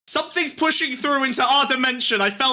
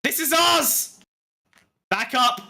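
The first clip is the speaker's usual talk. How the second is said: triumphant demon fighter; 2 semitones higher than usual. Acted.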